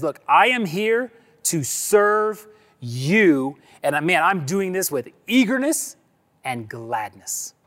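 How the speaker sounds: slow, deliberate statement of service; slowed, sincere declaration of eager service; slow earnest vow. Retold or imitated. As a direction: lay each word down slowly and earnestly. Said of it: "the attitude that says".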